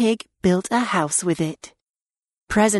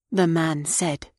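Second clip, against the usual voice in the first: plain reading voice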